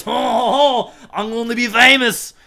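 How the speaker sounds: hammed-up chuckling store owner; jolly laughing shopkeeper. Shopkeeper chuckling as he answers Oprah, hammed up. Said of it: "this guy goes".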